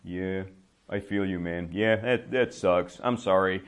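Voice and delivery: a hint of soothing fake sympathy; sympathetic noises. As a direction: humor him with a little sympathy. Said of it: "I kind of make sympathetic noises".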